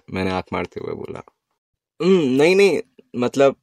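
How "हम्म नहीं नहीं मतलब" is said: high, loud embarrassed giggle through the words; flustered laugh. A narrator's reading. Girl caught out by his date joke, giggling.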